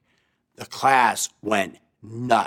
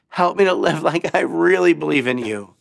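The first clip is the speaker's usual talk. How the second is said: crying out; 5 semitones higher than usual. Retold or imitated. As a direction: plead desperately. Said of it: "he cried out".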